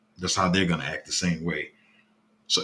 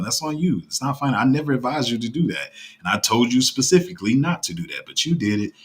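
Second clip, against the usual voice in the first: retold scolding; 5 semitones higher than usual. Retelling his scolding of group member.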